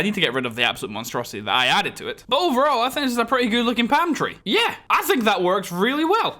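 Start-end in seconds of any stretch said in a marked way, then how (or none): 2.3-6.4 thrilled at how the palm tree turned out; excited pitch jump. Real, not acted. Builder admiring his finished palm tree, excited higher voice. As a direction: voice climbs higher with real excitement. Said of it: "Why does my voice go up an octave when I get excited?".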